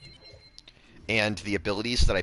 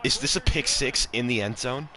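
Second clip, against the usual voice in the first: shocked; 9 semitones higher, 4 dB louder than usual. Real, not acted. Gasp at interception.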